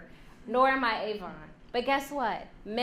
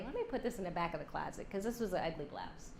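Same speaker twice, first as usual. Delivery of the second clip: soft, low resigned mutter; woman hiding her blouse away, deflated; dejected; 5 semitones lower, 7 dB quieter, faster than usual. Retold or imitated. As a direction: give up on it quietly. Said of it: "She might even go home and say".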